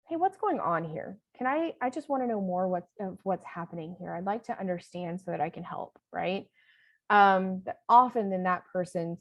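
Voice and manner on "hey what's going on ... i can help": calm adult voice. Shown as a demonstration. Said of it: "responding with a".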